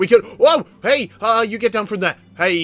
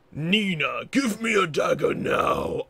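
customer's demand; 3 dB quieter, slower than usual. Acted. Voices the customer's order.

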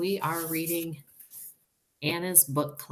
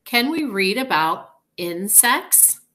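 excited; 3 semitones higher, 8 dB louder than usual. A narrator's reading. Character dialogue read aloud.

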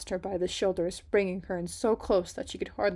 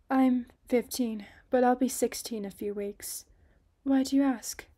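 put-on bright young girl; 5 semitones higher, 4 dB louder than usual.

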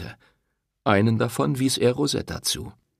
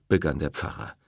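ordinary delivery, nothing marked

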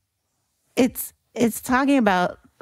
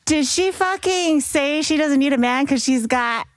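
shocked disbelief; 5 semitones higher than usual. Retold or imitated. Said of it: "And I'm like".

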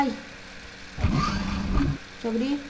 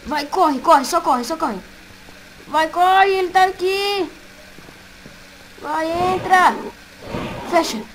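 being chased; 3 semitones higher, slower than usual. Real, not acted. Fleeing the animatronic again.

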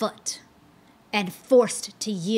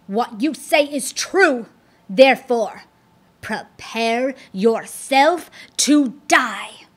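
loud fury slowing into a deadly threat; grievous rage; 5 dB louder than usual. Acted. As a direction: spell out the death sentence slowly. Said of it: "broke into a grievous rage".

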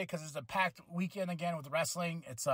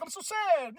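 higher, hammed-up pout; mock sad; 9 semitones higher than usual. Vlogger mocks jealous wrestler's sulking, higher mock pout. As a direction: fake sadness for a laugh. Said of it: "he's like".

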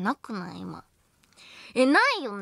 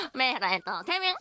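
laughing; faster than usual. Real, not acted. Joking catchphrase between laughs.

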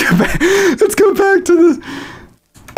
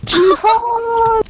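shouting. Pretend. Yelling a soundboard meme.

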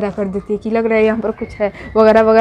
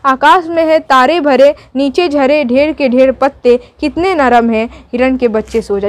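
poem recitation. Acted. Teacher recites lullaby poem.

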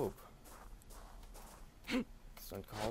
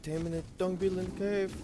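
higher, louder announcing; 1 proud announcement; 7 semitones higher, 6 dB louder than usual. Real, not acted.

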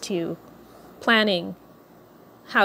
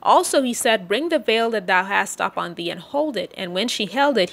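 measured King James reading voice; solemn scripture reading. Acted. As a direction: read the Bible passage aloud to the congregation. Reads Ruth chapter three aloud.

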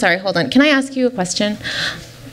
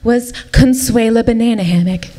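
fairy-tale storytelling; 2 semitones higher than usual. Acted. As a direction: stretch BEAUTIFUL like a storybook princess.

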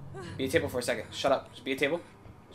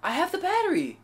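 very high, loud protest; high-pitched shouted complaint; exasperated yell; 6 dB louder than usual. Real, not acted. Protesting he has the battery.

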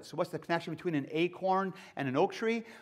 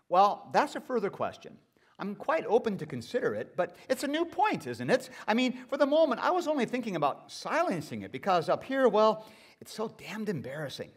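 higher, flustered ghost hedging; fussy ghost; 4 semitones higher than usual. Acted. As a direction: squirm out of it in a higher voice. Ghost squirms, pitch shoots up.

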